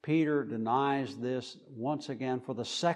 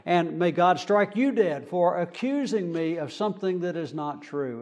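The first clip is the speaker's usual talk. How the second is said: mock curse; 3 semitones higher, 4 dB louder than usual. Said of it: "He's saying things like that".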